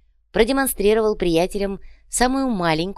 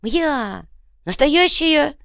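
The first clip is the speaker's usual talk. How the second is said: high, loud delighted cry; excited; 11 semitones higher, 5 dB louder, much slower than usual. Acted. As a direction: crow with delight. Bit the gold.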